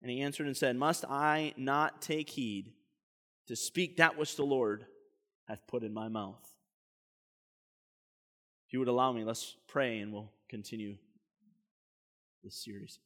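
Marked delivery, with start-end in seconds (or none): none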